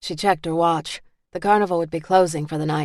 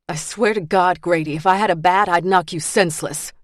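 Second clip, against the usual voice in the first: angry. Acted. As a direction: spit the threat out. Furious woman threatening Grady.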